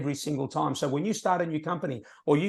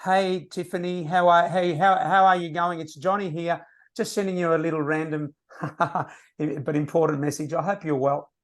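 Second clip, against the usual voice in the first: slightly raised, careful reading off a script; stiff scripted call. Shown as a demonstration. Rookie reading his call script off the page. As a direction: read it like a nervous beginner. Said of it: "having a script in front of me".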